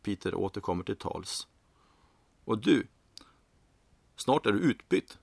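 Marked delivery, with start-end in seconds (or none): 2.4-5.2 cheerful, higher-pitched needling; gleeful. A narrator's reading. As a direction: break the news with glee. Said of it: "säger Peter glatt".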